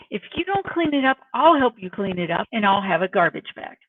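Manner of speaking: mock parental threat, dropping in pitch; firm ultimatum from a fed-up parent; stern parent to teenager. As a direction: warn a teen, meaning business. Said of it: "a totally different tone of voice".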